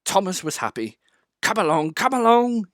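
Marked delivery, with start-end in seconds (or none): 1.4-2.6 puffed. A narrator's reading. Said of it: "he puffed".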